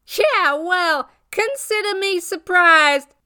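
high, loud sarcastic comeback; irritated retort. Acted. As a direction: throw it back at him, annoyed. Rose rebuffs unwelcome ex, acted.

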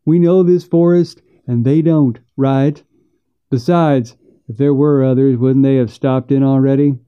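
lightly voiced impatient backwoodsman; exasperated brother. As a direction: argue as a brother fed up with the worrying. Brother argues back in the story.

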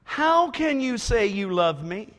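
pleading, whining woman; whiny voice. Acted. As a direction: whine it like a hurt lover. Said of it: "she comes in a whiny voice".

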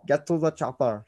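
put-on a light Austrian accent on the quote; Schwarzenegger quote. Host proving he can do better, light Austrian accent. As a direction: do the chopper line as Arnold. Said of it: "See? I can do better".

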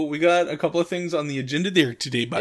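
put-on Wisconsin accent with stretched vowels; playfully exaggerated Wisconsin talk; joke Wisconsin accent. Podcast host outlining the agenda to co-host, joke Wisconsin accent. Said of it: "this accent that we're doing".

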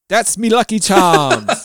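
mock Irish accent. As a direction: play the cereal-box leprechaun Irish, slowly. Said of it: "Give me an Irish".

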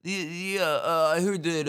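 put-on a high, pushed New York squirrel accent. Squirrel in a botched New York accent. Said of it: "I wish I had a, uh, like, a New York accent".

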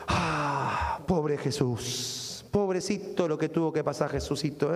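slow, syrupy put-on pity for Jesus; mock pity. Preacher imitating Easter crowds leaving church, drawn-out mock pity. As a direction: coo it like shallow, showy sympathy.

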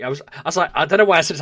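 ordinary delivery

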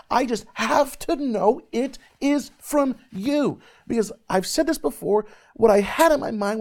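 high, loud, fervent preaching; preaching at full force. Acted. Preacher telling youth about his calling, preaching fervently. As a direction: preach it out to the crowd with full passion.

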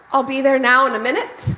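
barely attempted Rhondda accent, a little giggly; half-hearted Welsh accent. Shown as a demonstration. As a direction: make a feeble try at Welsh. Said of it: "I feel like you didn't even try".

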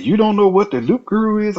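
high-pitched mock-incredulous question; imitated disbelief. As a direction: imitate a local amazed at such ignorance. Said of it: "He said".

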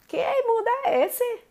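high, exaggerated indignant squeal; hammed-up what-is-this-world cry; mock outrage. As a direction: jump way up in pitch, scandalized. Mocking exasperated bystander reaction.

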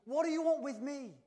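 loud, high mock yell; acted confrontational bellow; threatening shout. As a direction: shout it like a menacing stranger. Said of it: "is shouting at you".

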